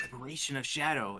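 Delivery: whispered under the breath. Casting a spell in character from the stands: whispering under breath. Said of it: "I whisper under my breath".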